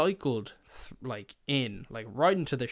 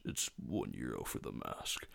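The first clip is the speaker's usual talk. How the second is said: much lower and softer imitation of a very deep voice; deepest voice; 14 semitones lower, 10 dB quieter than usual. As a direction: drop into the deepest rumble you can. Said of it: "He's got, like, the deepest voice known to man".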